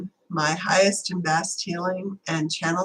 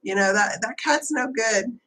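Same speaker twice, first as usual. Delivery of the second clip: higher-pitched mock alarm; imitating freaked-out kid; 5 semitones higher than usual. Retelling a kid scared of the black cat, mock panic. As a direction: mimic a scared kid warning people off. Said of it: "He started freaking out".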